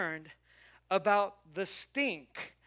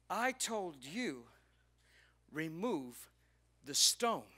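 slow insistence; 5 dB quieter, slower than usual. Acted. Jesus repeats his order.

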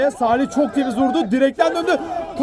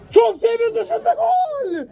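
excited goal call; 9 semitones higher than usual. Real, not acted. Seventh goal called.

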